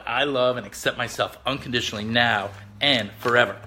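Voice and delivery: firm declarations, one by one; reading affirmations. Shown as a demonstration. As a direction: read each affirmation with conviction. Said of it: "I'm gonna read you just my affirmations".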